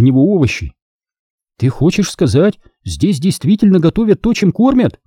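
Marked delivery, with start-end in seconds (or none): 1.6-5.0 rising, incredulous question; amazed, high-pitched query; surprised. A narrator's reading. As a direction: climb higher in disbelief. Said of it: "удивилась Сири".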